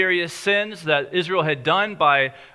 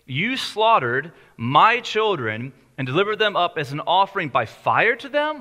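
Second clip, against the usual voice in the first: quoting God; 2 semitones higher than usual. Retold or imitated. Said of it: "He says".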